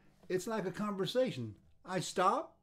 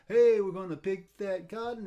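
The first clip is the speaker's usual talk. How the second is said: called out louder, "Hey" stretched; calling out the call of a work song; field call; 3 semitones higher, 6 dB louder than usual. Retold or imitated. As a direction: sing out the call across a field. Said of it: "Like one smart person say".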